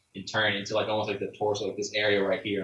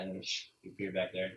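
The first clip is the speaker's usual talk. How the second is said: ordinary talk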